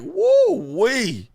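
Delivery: high loud whoop; woo-wee exclaim. Retold or imitated. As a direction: whoop it in disbelief. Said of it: "I'm like".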